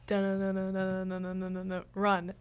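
rapid monotone da-na-na, then a shout-out; imitated video music. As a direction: mimic a video's tune on one note. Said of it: "and then it's".

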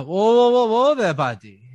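high, loud whoa of alarm; startled halfling. Acted. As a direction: jump back, warning the thief. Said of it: "And there's a".

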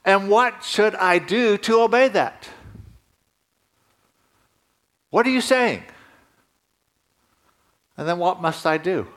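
pleading, high prayerful voice; earnest prayer. Pretend. Pastor voicing a believer praying to the Holy Spirit, high and earnest. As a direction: reach upward in prayer, asking. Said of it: "it's actually".

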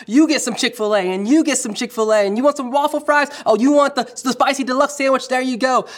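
excited talk-show host handing out prizes; Oprah giveaway impression. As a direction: hype it up like Oprah giving away gifts. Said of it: "It's like Jesus is kinda like Oprah".

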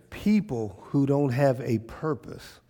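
soft earnest call to stand; quiet earnest preaching. Real, not acted. Quiet sermon close.

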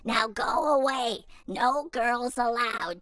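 put-on loud bossy kid; shooing. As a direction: order the girl off. Froggy shoos the girl off.

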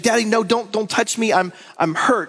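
imitating a scared child, high and pleading; voicing a hurt little girl begging don't touch; daughter in pain. Hurt daughter begs her father not to touch, mock fearful. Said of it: "she's like".

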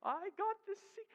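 lightly voiced giddy kid dangling a secret; gloating little girl. Daughter taunting her sister about the gift, giddy and high. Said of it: "she loved to tell her sister".

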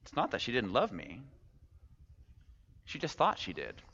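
softened, reflective restatement; hushed punchline with weight; quiet repeat. Acted. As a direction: let it sink in, softly. Punchline repeated softly to sink in.

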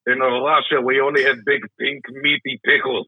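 a light put-on Russian accent; mock Russian boasting about pickles; lightly voiced Russian accent. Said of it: "just a terrible Russian accent".

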